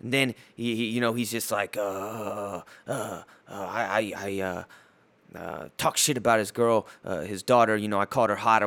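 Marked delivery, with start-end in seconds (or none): 1.8-5.7 imitating a stammering, halting hesitation, softer; mock stutter. Mocking a rapper's stutter on the radio, halting. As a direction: stumble over the words on purpose. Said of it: "all he does for ... is stutter".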